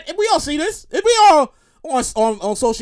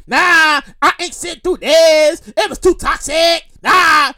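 slow, louder mock dismissal; dismissive mock Pelosi; 4 dB louder, slower than usual. Pelosi brushing off the speech, in a slow, louder mock dismissal. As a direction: wave it off, drawn out and unbothered. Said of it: "I mean, she didn't say it like that".

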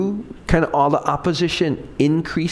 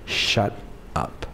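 soft inner voice; 6 semitones lower, 7 dB quieter than usual. Retold or imitated. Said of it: "God told me".

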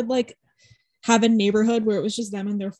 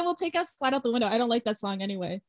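breezy mock dismissal; 4 dB quieter, faster than usual. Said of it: "You said".

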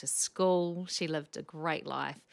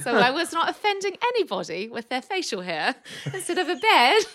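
higher, louder laughing explanation; 9 semitones higher, 10 dB louder than usual. Real, not acted. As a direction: laugh at the accent trick. Laughing at accent switch.

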